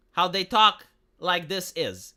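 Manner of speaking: slow, lightly voiced Yoda word order; mild Yoda mimicry, slowed down; Yoda speak. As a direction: drag out a backwards Yoda line, slowly. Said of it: "Germans speak like Yoda".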